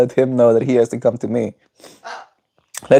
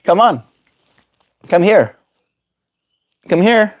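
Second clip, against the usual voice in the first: high sing-song call to a bird; high coaxing voice; 8 semitones higher, 3 dB louder than usual. Real, not acted. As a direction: coax the parrot up, sweetly. Coaxing parrot to step up.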